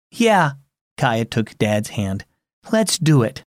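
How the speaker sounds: put-on gentle storyteller reading to children; story narration. A narrator's reading. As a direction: read the story warmly to kids. Narrates story with character voices.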